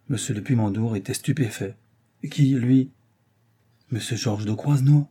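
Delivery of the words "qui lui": stunned father. Acted.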